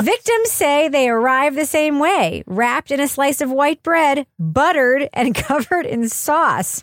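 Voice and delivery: lightly dramatized news report; mock news read. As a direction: read a silly crime story as serious news.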